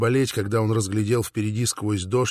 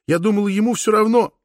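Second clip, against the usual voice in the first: sobbing; 9 semitones higher, 3 dB louder than usual. A narrator's reading. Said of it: "всхлипывала Катрина".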